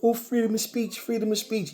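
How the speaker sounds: ridiculing people who hide behind free speech; mocking parrot. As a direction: parrot the excuse in a mocking high voice. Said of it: "everybody's going".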